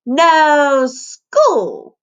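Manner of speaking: put-on high chirpy little girl; chirpy toddler. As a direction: chirp it like a happy three-year-old. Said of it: "chirped Vericella".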